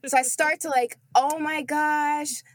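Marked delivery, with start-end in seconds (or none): 1.2-2.4 slow, higher, hammed-up childish whine; drawn-out mock distress; mock upset whine. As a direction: play up the hurt to tattle. Child fake-upset to tattle.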